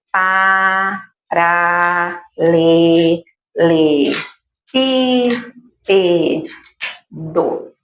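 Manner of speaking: "pa, ra, le, le, i, e, do" one held syllable at a time; even chant-like beats on "pa, ra, le, le, i, e, do", pauses between; cada sílaba separada. Shown as a demonstration. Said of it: "trabalhando cada sílaba". ("pa, ra, le, le, i, e, do" sílaba por sílaba)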